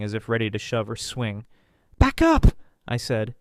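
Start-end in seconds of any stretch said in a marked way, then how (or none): 2.0-2.5 shout. A narrator's reading. Narrator shouts at lunging man.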